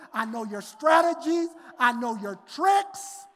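fiery sermon reading; preached scripture. Acted. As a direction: proclaim God's words.

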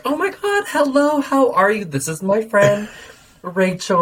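very high, put-on social gush; exaggerated sugary hello; gushing introduction. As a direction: greet them in a fake high-pitched fuss. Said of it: "I would rather just be like".

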